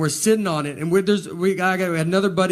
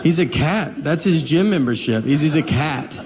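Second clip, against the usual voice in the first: exasperated retort. Retold or imitated. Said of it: "You're like".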